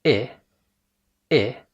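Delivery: "إيه" as brief ih with spread lips; short kasra-like "إيه", as in sit; short English I. Shown as a demonstration. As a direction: smile into "إيه", keep it short. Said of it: "واخد وضعية الابتسامة".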